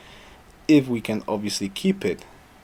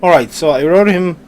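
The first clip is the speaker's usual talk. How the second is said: losing his voice; strained, hoarse delivery; 7 semitones higher, 9 dB louder than usual. Real, not acted. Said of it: "God, I'm losing my voice".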